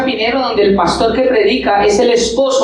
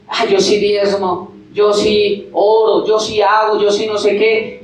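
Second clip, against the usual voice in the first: fariseo presumido; slower than usual. Retold or imitated.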